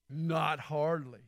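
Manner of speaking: slow, dry cowboy drawl, lightly done; a hint of John Wayne, drawn out; preacher demoing a slow Wayne line for the crowd; John Wayne impersonation. Shown as a demonstration. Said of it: "with your best John Wayne impersonation".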